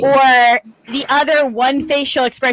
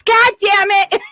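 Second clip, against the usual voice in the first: higher, snappy "God damn it"; quick mock curse; 9 semitones higher, 3 dB louder than usual. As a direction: blurt it out in surprise.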